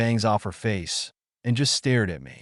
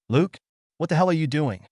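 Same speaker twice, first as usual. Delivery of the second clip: shouting; 7 semitones higher than usual. A narrator's reading. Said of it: "Jessie shouted".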